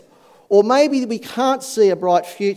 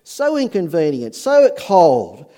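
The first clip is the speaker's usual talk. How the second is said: mock-indignant grumble, higher and louder at first; grumbling; 4 semitones higher, 4 dB louder than usual. Preacher voicing an annoyed traveller forced to walk, mock grumbling. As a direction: complain like someone put out, easing off towards the end. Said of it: "He's grumbling".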